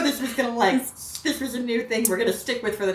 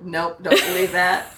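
put-on slow, firm childlike denial; mock-stubborn, drawn-out refusal; stubborn kid; 3 semitones lower, slower than usual. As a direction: dig in like an unconvinced little boy. Retold child refusing again.

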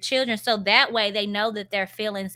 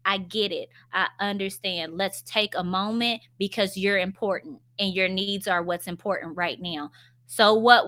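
patient reassuring. Shown as a demonstration. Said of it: "stop and pause and say".

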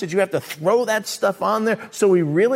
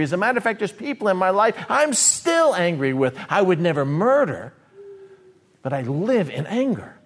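voicing angry believer. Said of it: "he talks about anger".

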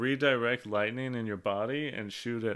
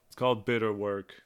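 put-on British accent. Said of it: "Had to say it with a British accent".

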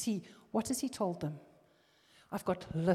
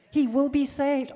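louder and higher repeat; emphatic repeat; 7 semitones higher, 9 dB louder than usual. Shown as a demonstration. Preacher repeating the promise to the congregation, louder. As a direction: say it again with force.

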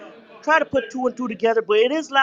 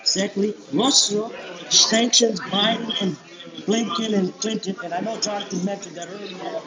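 muffled, distant with background noise; far from mic. Real, not acted. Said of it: "it's really hard to hear you".

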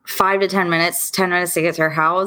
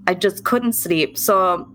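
reassuring friend; 5 semitones higher than usual. Acted. Elsa calms the caller.

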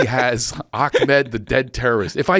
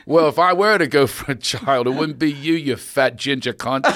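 bad Ricky Gervais impression. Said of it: "that was my bad Ricky Gervais impression".

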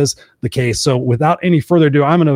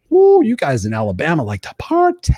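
mock cheer at the party; excited woo; 2 semitones higher than usual. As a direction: whoop it up lightly. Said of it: "I was like".

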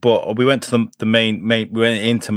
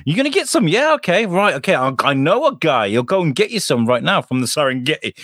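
mock shady dealer; 4 semitones higher than usual. Mock dealer offering real tigers.

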